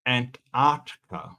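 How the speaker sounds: slow, over-careful "Antarctica" with the r sounded; weird careful pronunciation. Shown as a demonstration. Streamer practising Antarctica after a correction, slow and self-conscious. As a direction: sound out "Antarctica" slowly, piece by piece. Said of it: "now I'm sounding like a weird person".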